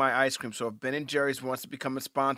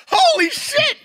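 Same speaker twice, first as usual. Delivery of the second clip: loud, high whoop of disbelief; excited shout; 10 dB louder, slower than usual. Retold or imitated. Co-host recalling news of the guest joining, thrilled shout. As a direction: yell it in stunned delight. Retelling excited reaction to finding out.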